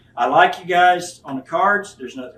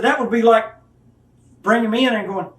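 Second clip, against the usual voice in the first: mocking; 5 semitones higher, 4 dB louder than usual. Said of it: "I said".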